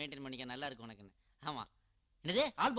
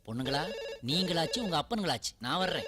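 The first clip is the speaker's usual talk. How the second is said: exasperated outburst; 5 dB louder than usual. Acted. Fed up, storming off.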